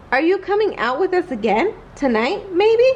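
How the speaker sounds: hopeful, rising pleading question; keen to get a yes; eager kid. Acted. Greg eagerly asking Newton to come out tonight.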